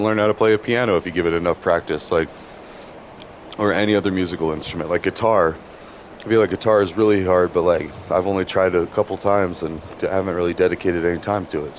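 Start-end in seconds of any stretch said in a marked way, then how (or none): 6.2-11.8 eating while talking. Real, not acted. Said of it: "Sorry, I'm also eating a little snack too".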